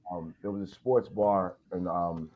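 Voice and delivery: mic cutting in and out; choppy, crackling microphone audio; crackly usb mic. Real, not acted. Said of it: "your mic is clicking on and off".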